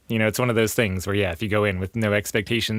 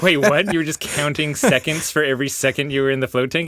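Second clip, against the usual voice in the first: startled, raised voice; surprised; 3 semitones higher than usual. Retold or imitated. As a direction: caught off guard. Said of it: "And you're like".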